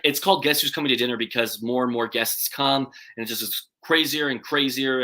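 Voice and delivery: excited, slightly slurred words; words running together from excitement; slurring words. Real, not acted. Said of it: "slurring my words 'cause I get excited".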